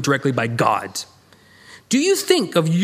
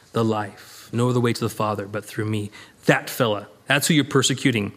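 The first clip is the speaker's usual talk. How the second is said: lightly voiced Jesus; 6 semitones lower than usual. Preacher voices Jesus speaking.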